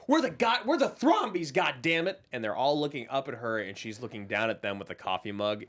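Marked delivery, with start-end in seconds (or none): 0.1-2.2 higher, proclaiming from above; proud declaration. Retold or imitated. Heiress lording it over the family, proud declaration. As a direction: declare it like you own the house. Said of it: "now she's standing over and looking down".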